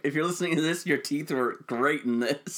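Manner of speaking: slowed, mocking repeat of the co-host's shout-out; mock sincere. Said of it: "It's like".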